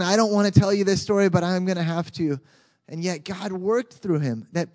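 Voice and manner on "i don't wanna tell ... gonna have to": reluctant preacher. Retold or imitated. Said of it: "most, like, reluctant".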